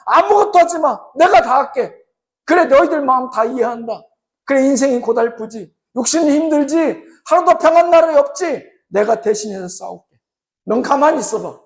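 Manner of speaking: gentle, reassuring divine voice; comforting God. Acted. God comforting the weary Israelites, gentle and reassuring. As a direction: soothe them like a caring father.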